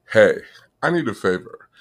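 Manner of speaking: ordinary delivery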